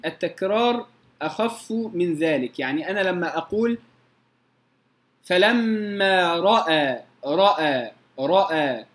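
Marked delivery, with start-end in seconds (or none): 5.2-8.8 فلما رأى slow, ر of رأى with a single tap; light ra. Shown as a demonstration. Teacher models the light ra in رأى. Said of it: "مرة واحدة".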